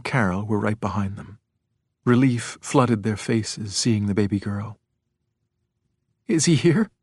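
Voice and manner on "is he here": high, frightened question; tremulous. A narrator's reading. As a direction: ask timidly, with a tremor. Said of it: "asked in a tremulous voice".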